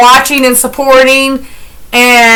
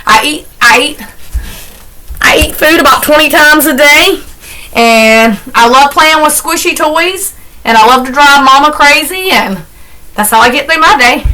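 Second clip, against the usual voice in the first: voicing the dog Mushroom; 2 semitones higher than usual. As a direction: talk for the dog as if he's bragging about his easy life. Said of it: "Mushroom says".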